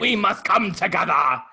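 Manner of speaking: loud, high mock-British echo; Britishy accent. Mimicking co-host's failed Southern accent, loud Britishy voice.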